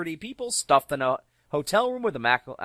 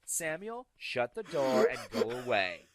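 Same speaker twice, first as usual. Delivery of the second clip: slow, unbothered mock brush-off; dismissive mother; slower than usual. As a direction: wave him off like a tipsy mom. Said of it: "She's like".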